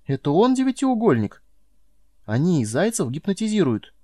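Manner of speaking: astonished. A narrator's reading. Boy stunned by talking hare.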